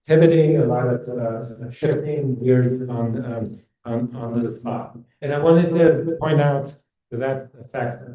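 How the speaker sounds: speaking with heavy reverb; echoing. Real, not acted. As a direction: voice echoing like a big hall. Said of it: "I'm echoing".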